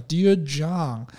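slow, soft loving "Dear John"; tender. Retold or imitated. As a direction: say it lovingly and slowly. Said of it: "充满爱意怜惜的语气".

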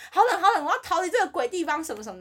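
high, loud and laughing: "so cold, so cold"; boss's exaggerated cold whine; mock shivering complaint. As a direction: play the boss whining about the cold, half-laughing. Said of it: "他就一直说".

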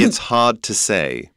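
slow British delivery, R dropped in "hard"; British accent. Shown as a demonstration. Teacher repeating the line on request in a British accent. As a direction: give it slowly in a British accent. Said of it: "要怎么用英国腔说呢".

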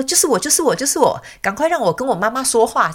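high, excited puppy voice; cute little dog. Retold or imitated. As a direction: imitate an eager tail-wagging pup. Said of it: "那个白色的小狗就很可爱哦".

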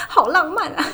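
high, loud dreamy sigh of a fan; swooning fangirl. Real, not acted. Fan gushing about walking past his old school, swooning. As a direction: gush like a lovestruck fan.

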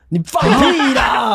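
high, drawn-out shout of denial; bullshit, shouted slowly in real disbelief; disbelieving shout. Real, not acted. Friend denies story in disbelief.

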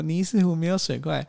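high slow giggling cutesy voice; cutesy fairy talk. Retold or imitated. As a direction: coo it with a giggle. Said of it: "然后你就说".

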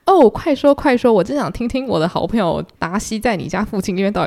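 excited. Acted. Fitzwilliam begging Elizabeth to tell Darcy's blunders, excited. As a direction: jump in eager to hear the gossip. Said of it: "费兹威廉这个时候就很兴奋".

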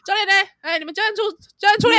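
put-on high, sweet baby voice calling out. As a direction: summon the coach in a cute baby voice. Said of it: "教练怎么娃娃音？".

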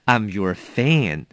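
"I'm your fan" said slowly through a small laugh; laughing demo. Shown as a demonstration. Teacher repeating the correct phrase for students, amused. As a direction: model the phrase with a chuckle. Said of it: "记得了".

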